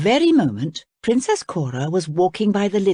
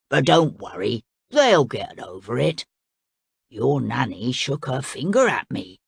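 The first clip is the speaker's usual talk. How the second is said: lower, matter-of-fact crocodile voice; a blunt beast owning up; 4 semitones lower than usual. Acted. Crocodile confesses to Cora in a lower, blunt voice.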